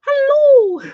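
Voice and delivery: high-pitched drawn-out holler to a friend; big sing-out greeting; playful calling out. Acted. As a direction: call out the name in a high, exuberant voice. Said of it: "I'm like".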